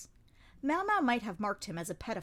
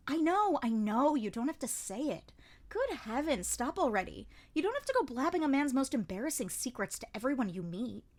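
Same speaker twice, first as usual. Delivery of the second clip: flustered interruption; 4 semitones higher than usual. Acted. Lahan cuts her off, flustered.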